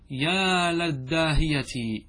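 يا للداهية with the lam said la, open vowel; drawn out slowly, stressing la in للداهية; يا للداهية: لام مفتوحة، ببطء. Shown as a demonstration. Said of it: "تفتح اللام".

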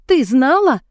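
nearly shouting in accusation; loud hiss rising to a cry. A narrator's reading. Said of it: "громко зашептала я". (громкий обвиняющий выкрик)

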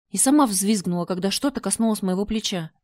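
ordinary delivery

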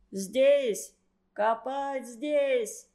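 mild mock officer's order, slow on the second line; lightly voiced officer barking a command; officer shouting. A narrator's reading. German officer orders prisoners to dig, mild mock shout. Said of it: "кричал он".

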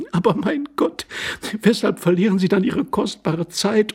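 high, urgent lady's voice; interrupting lady. A narrator's reading. Lady interrupting the dithering intruder, urgent. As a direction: break in impatiently. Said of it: "unterbrachen die Dame, indem sie zu lachen aufhörte".

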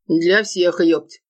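plain reading voice

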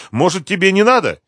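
high, worried question; alarmed. A narrator's reading. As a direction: plead anxiously against going. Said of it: "испугалась Света".

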